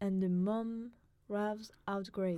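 put-on steady, careful recitation in his British accent; poem reading. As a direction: read the poem out as a cultured foreigner would. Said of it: "You wanna try reading it really quick?".

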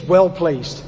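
put-on light East London accent, Cockney vowels on "Well pleased"; Jamie Oliver. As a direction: say "Well pleased" like a London chef, cheerful and casual. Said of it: "Jamie Oliver. He says".

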